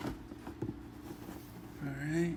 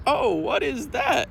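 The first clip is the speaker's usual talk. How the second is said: curious friend; 11 semitones higher, slower than usual. Retold or imitated. Friend voiced in a story.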